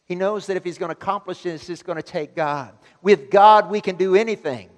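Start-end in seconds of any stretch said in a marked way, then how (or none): 3.0-4.7 loud, high declaration; preaching shout. Real, not acted. Preacher shouts his conviction to the congregation. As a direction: proclaim it to the room.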